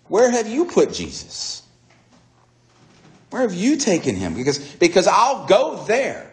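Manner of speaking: high, insistent appeal; pleading. Retold or imitated. Mary begs supposed gardener for Jesus, high urgent pleading.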